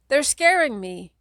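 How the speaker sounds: high, loud tearful shriek. Acted. Kate shrieking to her older sibling, high and loud. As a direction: shriek it clinging to your legs. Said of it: "Kate shrieks, still sniffling".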